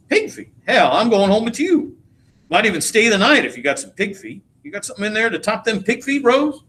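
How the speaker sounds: eager, greedy delight at the thought of pig feet; excited. Acted. Troy to Bono and Rose, thrilled by supper, high eager. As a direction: pitch jumps way up on Pig feet, then easy teasing.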